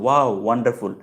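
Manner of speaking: milder echo of the exclamation; understated learner's repeat of ওয়াও; repeating after. Shown as a demonstration. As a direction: echo what was just heard, practice-style. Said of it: "সাথে সাথে বলো".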